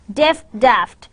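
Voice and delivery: "Deft" with short e, "daft" with open a; minimal pair. Shown as a demonstration. Teacher reads minimal pairs to learners, distinct vowels. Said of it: "some minimal pairs".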